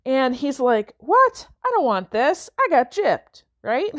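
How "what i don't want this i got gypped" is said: put-on boy squeaks in high outraged disbelief; indignant kid. Boy upset over pink figurine, high indignant yelp. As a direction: act out a let-down boy protesting his gift.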